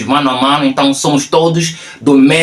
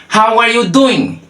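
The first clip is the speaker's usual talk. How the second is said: higher-pitched, words run together; connected demonstration; 9 semitones higher, slower than usual. Shown as a demonstration. Teacher repeats the second phrase for learners, connected demonstration. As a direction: model the phrase in one sweep.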